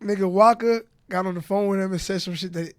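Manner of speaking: talking while chewing gum. Real, not acted. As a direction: chew gum as you talk. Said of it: "Stop chewing gum on the mic".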